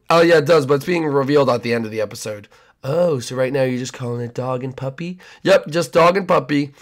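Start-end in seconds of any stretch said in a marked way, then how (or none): 2.8-5.2 creepy neighbor. Acted.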